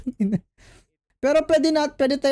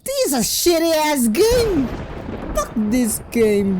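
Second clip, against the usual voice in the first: higher, slow, drawn-out rant; rage; 6 semitones higher, slower than usual. Real, not acted. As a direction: rage at the game. Raging after losing.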